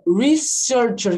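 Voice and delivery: "researcher" slowly, syllable by syllable; word modelling. Shown as a demonstration. Teacher pointing out a new word to students, slow demo. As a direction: stretch out "researcher" in clear parts. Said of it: "Que palavra é essa?".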